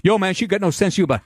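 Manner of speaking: quick, lightly put-on street talk; mock gang member. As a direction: toss it off like a pretend gangbanger. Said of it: "What am I, fucking crypt?".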